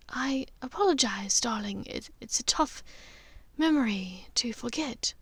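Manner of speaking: a painful memory, breathed out; sad sigh. Acted. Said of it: "she sighed sadly and said".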